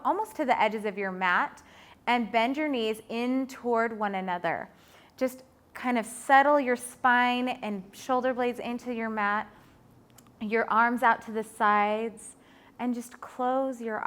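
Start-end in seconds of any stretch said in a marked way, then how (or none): none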